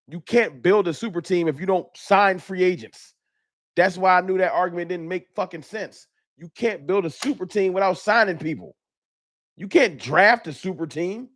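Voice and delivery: real exasperated rant; worked-up anger. Real, not acted. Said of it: "I'm normally not this angry".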